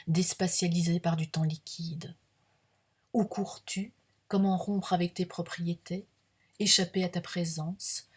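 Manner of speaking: measured verse reading with lifted line ends; deliberate poetry reading, pauses between images; poem recitation. Acted. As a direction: recite it phrase by phrase, savouring the sound-play. Reads own poem aloud.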